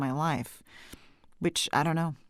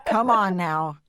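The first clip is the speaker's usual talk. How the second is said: laughing tease; 5 semitones higher, 4 dB louder, slower than usual. Real, not acted. Teasing about old age.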